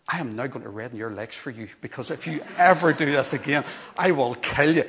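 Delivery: building from plain to a loud threat; scolding a lost child, voiced loud and far; mock angry parent threat. Relieved parent to found daughter, mock angry threat. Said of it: "my natural reaction was".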